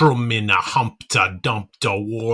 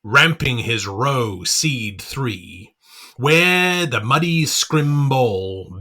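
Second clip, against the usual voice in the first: plain reading voice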